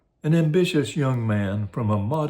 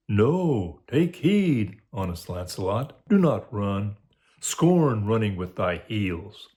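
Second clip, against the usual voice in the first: conscience; slower than usual. Acted. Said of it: "My conscience says".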